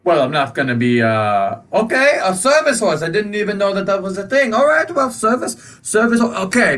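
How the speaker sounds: high, grudging and flustered; reluctantly allow the service horse; flustered shopkeeper. Acted. Shopkeeper grudgingly accepting the service horse, high and flustered. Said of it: "he goes".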